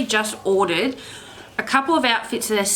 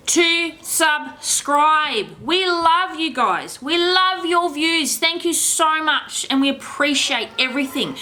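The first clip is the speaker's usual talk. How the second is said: higher, slow, drawn-out thanks to viewers; vlog sign-off; 6 semitones higher, slower than usual. Acted. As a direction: stretch out the subscribe plea, pitched up. Channel outro appeal to viewers.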